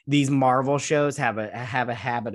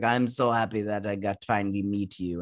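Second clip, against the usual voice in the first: lightly put-on rasp, lower pitch; raspy voice; 4 semitones lower than usual. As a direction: imitate a raspy greeting. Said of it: "she's got this real raspy voice".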